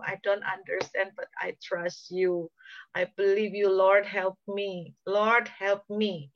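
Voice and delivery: slow, drawn-out words of trust; acted surrendered prayer. Preacher as David finally trusting God, praying slowly in surrender. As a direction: submit to God, lingering on each plea. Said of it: "pada akhirnya ngomong".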